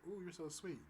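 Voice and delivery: high, sing-song sweetness; sugary date voice. Retold or imitated. Date's sweet text read in a high cooing voice. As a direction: gush at him like she's smitten.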